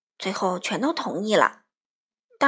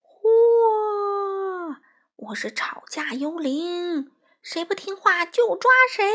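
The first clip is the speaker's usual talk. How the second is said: high, long-drawn spooky wail; haunt them with stretched, menacing words; slow, high ghost voice, swelling loud; quarrel ghost; 9 semitones higher, 4 dB louder, much slower than usual. A narrator's reading. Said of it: "突然出现了一个幽灵".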